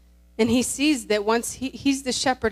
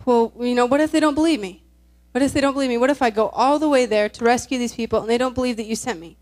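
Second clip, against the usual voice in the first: anxious doubting; 6 dB louder, faster than usual. Retold or imitated. Moses doubting his calling to God, anxious and louder. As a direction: press each doubt out louder, acting it. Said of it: "he starts doubting".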